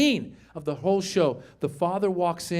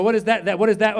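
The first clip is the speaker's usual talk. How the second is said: stalling; 2 semitones higher, faster than usual. Retold or imitated. Father flustered by daughter's question, stammered "what is that". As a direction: haltingly repeat "what is that".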